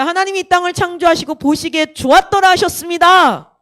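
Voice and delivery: lightly imitated preacher proclaiming; a hint of preacher's cadence; preacher's declaration. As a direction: recite it as if from the pulpit. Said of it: "그런데 이렇게 얘기했어요".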